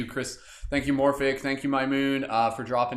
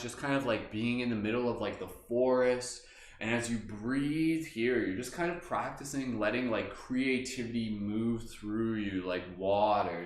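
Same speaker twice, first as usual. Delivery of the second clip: guided meditation; 3 dB quieter than usual. Acted. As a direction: guide them gently inward. Leads a meditation.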